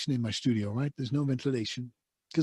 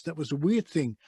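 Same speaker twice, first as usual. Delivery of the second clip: ordinary talk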